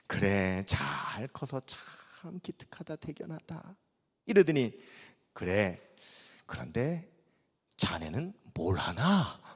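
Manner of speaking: low, slow fatherly voice; old pastor. Retold or imitated. Old pastor gently asking the young man about his work. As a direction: speak slowly like a kind old man.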